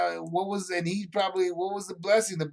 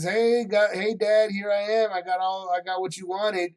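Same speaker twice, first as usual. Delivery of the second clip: lively, higher-pitched call to dad; eager greeting; 4 semitones higher than usual. Acted. Esau comes in to his father with the food, eager greeting. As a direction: call out that you've arrived, a bit higher.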